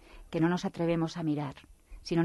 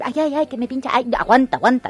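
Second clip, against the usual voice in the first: loud, high little cries of pain; mock yelps of pain; 5 semitones higher, 8 dB louder than usual. Truth being dressed by the Lie, yelping in pain. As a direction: yelp as the pins prick. Le decía.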